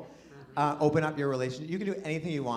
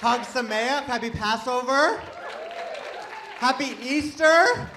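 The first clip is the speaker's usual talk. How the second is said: greetings rising higher and louder each time, last one slow; building festive shout; 9 semitones higher, 7 dB louder than usual. Real, not acted. Comic calls holiday wishes to the crowd, building to a shout. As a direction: pile up the cheer.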